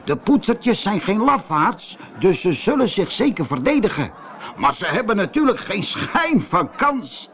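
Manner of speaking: high, mocking boast; gloating laugh. Gang leader scoffs at the enemy, high gloating voice. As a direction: boast it with amused scorn. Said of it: "lachte hij".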